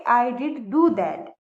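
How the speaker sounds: "do" stressed after "did"; emphatic do. Shown as a demonstration. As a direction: press on "do" to insist. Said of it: "जोर दे के बोलेंगे". ("do" पर ज़ोर देकर)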